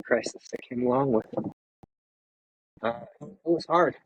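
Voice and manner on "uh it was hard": getting choked up, voice dropping away; emotional. Real, not acted. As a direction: push through the emotion, then falter. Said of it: "I'm sorry I'm emotional".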